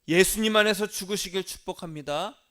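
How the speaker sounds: loud, emphatic blessing; preaching shout. Real, not acted. Pastor blessing the congregation, loud and emphatic. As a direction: proclaim it with full force.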